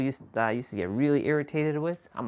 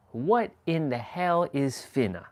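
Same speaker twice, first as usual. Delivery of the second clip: baffled; 3 semitones higher than usual. Retold or imitated. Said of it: "I'm like".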